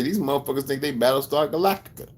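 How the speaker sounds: high-pitched scoffing disbelief; retold incredulous mockery. Speaker recalls ridiculing the group, high and incredulous. Retelling what he used to say.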